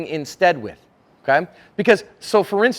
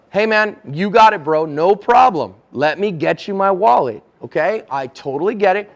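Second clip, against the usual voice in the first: compliant reassurance; 4 dB louder than usual. Acted. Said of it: "What's a nonverbal that can help with that?".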